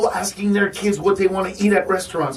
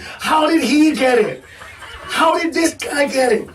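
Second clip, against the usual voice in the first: incredulous shout; 5 semitones higher than usual. Real, not acted. Incredulous at no-contagion claim.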